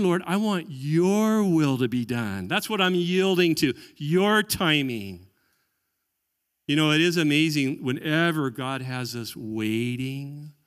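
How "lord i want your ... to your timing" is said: surrendered prayer. Retold or imitated. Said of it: "In the end".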